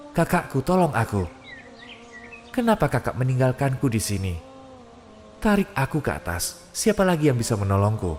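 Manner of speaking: high, desperate calling to a brother; trapped soul calling upward; pleading call for help. Acted. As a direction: cry out to be pulled up. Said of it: "Coba teriak yang keras".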